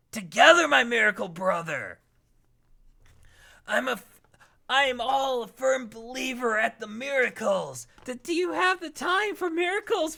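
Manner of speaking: Gamzee voice. Acted. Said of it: "how was my Gamzee".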